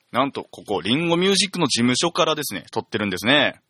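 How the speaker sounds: broad Tsugaru dialect, casual chat; thick Tsugaru dialect. Real, not acted. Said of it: "ここからは津軽弁で喋らせていただく".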